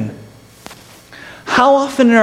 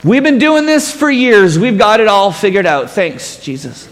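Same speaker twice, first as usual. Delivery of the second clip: yelling back; 3 semitones higher than usual. Acted. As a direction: wave him off from the boat. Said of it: "we're yelling back".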